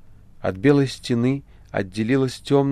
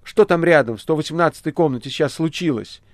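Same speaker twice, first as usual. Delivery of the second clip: loud, high, agitated call; nervous calling out; 7 semitones higher, 7 dB louder than usual. A narrator's reading. Ivanushka calls the nurse about next door, agitated. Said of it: "нервничая уже и вздрагивая".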